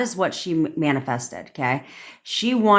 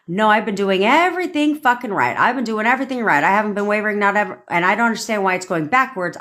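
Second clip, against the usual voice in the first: higher, insistent mock complaint; frustrated protest; 4 semitones higher than usual. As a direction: protest as if you did it all right. Acted protest of frustrated manifester.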